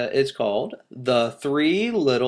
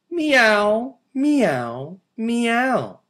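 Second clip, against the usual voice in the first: crying kittens; 10 semitones higher, 5 dB louder, much slower than usual. Acted. Kittens cry, second reading.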